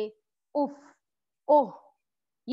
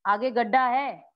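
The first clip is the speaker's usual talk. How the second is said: warning; slower than usual. Shown as a demonstration. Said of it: "चेतावनी अगर मुझे किसी को देनी है".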